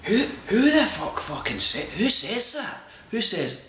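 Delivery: high, laughing outrage at what he said; incredulous laughing who says that; laughing disbelief. Retold or imitated. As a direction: squeal it in amused disbelief. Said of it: "I was like".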